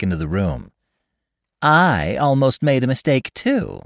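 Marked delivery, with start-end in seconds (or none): 1.6-3.8 high, loud emphatic claim; emphatic wife declaring; vigorous declaration. A narrator's reading. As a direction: declare it with force. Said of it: "she declared vigorously".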